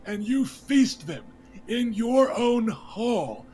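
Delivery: a wronged lord accusing the king before the hall; young lord confronts the king, angry and hurt. Acted. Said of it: "raises his voice".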